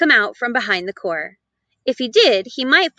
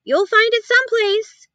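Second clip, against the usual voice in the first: not much interested; 11 semitones higher than usual. A narrator's reading. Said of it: "not much interested".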